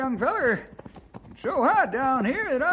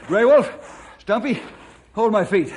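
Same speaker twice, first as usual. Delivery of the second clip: urgent shout; 5 dB louder than usual. Acted. Urgent rescue orders.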